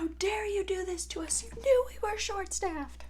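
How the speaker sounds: mock outrage. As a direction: play the wronged diva. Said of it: "I'm laughing and I'm like".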